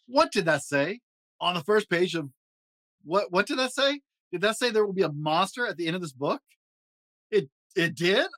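high fuzzy Muppet monster, jittery and fretful; Grover voice. Acted. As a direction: play a nervous, lovable blue monster. Grover voice reading story.

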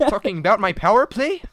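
playful French Canadian chirp, hammed up; French Canadian accent. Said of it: "His French Canadian accent".

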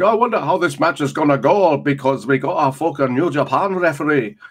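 a light mock Japanese accent; lightly put-on Japanese accent. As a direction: imitate a Japanese referee's English in a light Japanese accent. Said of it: "that's my doing their accent".

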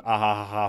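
flat spoken villain laugh, read out not acted; evil chuckle. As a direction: say "ah ha ha ha" like a lazy cartoon villain. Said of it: "villain laugh".

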